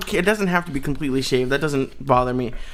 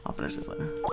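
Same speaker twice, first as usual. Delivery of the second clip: whispering; 13 semitones lower, 14 dB quieter, faster than usual. Real, not acted. Quiet aside before call.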